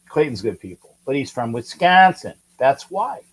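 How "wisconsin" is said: light mock Wisconsin accent on "Wisconsin". Shown as a demonstration. Host explaining why Clayton is nice, mock Wisconsin accent. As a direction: lean into a local Wisconsin vowel. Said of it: "accent like that".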